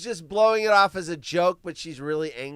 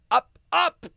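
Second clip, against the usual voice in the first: much higher, climbing up; rising mock; 10 semitones higher, 5 dB louder than usual. Mocking prices climbing, voice rising higher.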